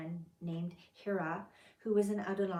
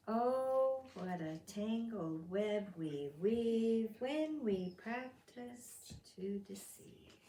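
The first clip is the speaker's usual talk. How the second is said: hushed proverb; much slower than usual. Acted. Proverb said as an aside.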